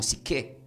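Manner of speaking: "psique" said si-KE, accent on the last E; stress on final E. Shown as a demonstration. Teacher repeating the Greek example, "psique" stressed on the last syllable. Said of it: "con acento en la E".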